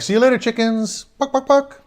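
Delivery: high, loud clucking jeer; mocking chicken taunt. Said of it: "and they're like".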